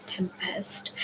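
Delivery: usual speaking voice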